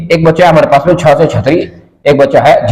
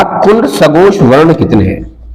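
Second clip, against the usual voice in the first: "कुल सघोष वर्ण" drawn out word by word; slow, emphatic question; slower than usual. Acted. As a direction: read the exam question slowly and deliberately. Exam question repeated for emphasis.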